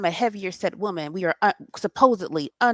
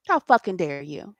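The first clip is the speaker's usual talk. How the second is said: whispered fury, unvoiced and lower; seething whisper; 4 semitones lower than usual. Real, not acted. To people who mock dark-skinned women, a seething whisper. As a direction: hiss the outrage under the breath. Outrage at insults.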